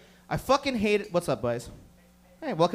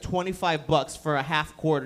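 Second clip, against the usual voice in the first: lower, calm dealer voice; 6 semitones lower than usual. Retold or imitated. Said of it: "And he's like".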